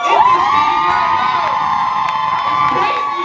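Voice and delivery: high breathy disbelief; squeaky overwhelmed. Acted. Mock overwhelmed gratitude.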